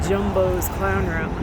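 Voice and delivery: slowed, savored Jumbo's Clown Room; said with relish. Pretend. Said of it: "say it like that every time".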